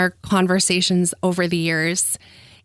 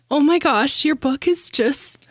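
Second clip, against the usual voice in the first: tearful; 4 semitones higher than usual. Real, not acted. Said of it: "I'm just gonna cry".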